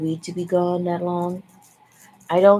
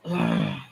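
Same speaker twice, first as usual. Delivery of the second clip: very low, drawn groan; low wordless grumble of annoyance; annoyed groan. Real, not acted. Annoyed, venting.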